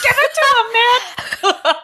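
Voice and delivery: panicky pleading. Retold or imitated. Robbery, urging friend to comply.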